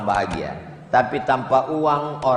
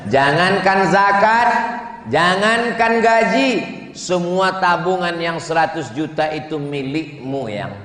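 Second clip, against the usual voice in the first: passionate vow; 3 semitones higher than usual. Acted. Husband's loving reply acted.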